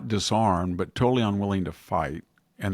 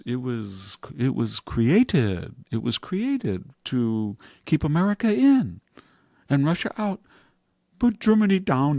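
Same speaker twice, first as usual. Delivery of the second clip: French diplomat; 3 semitones higher than usual. Retold or imitated. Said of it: "a French diplomat says".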